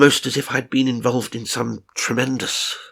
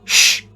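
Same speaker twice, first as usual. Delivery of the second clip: shushing; 6 dB louder than usual. Real, not acted. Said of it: "talking quietly".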